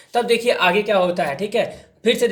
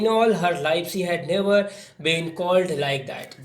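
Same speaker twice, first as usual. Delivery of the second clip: slow reading; much slower than usual. Shown as a demonstration. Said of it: "teacher reads English text slowly".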